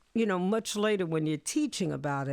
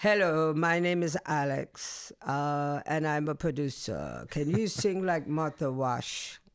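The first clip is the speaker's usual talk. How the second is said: put-on Alex's German accent; 3 semitones lower than usual. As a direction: imitate a German producer, unhurried. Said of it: "This is me doing a German accent".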